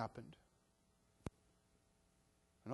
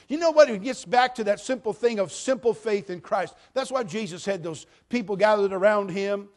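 loud, higher, passionate preacher delivery; full-force preaching; 10 semitones higher, 14 dB louder than usual. Acted. Pastor preaching salvation loudly to the church. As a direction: proclaim it with fire.

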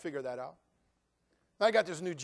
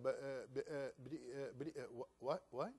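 softer, stammering in shock, barely getting words out; stunned stammer; 4 semitones lower, 12 dB quieter than usual. Retold or imitated. Fired employee stammering at his boss, stunned and quiet. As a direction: freeze up and stammer the buts.

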